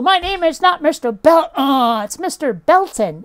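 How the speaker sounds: lightly voiced exasperated science teacher; correcting science teacher. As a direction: retell a teacher insisting on the T in "Belton". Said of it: "a science teacher who would go".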